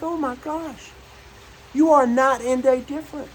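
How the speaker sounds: high, delighted disbelief; marveling at how young they look; amazed. Retold or imitated. Marveling at the changed couple.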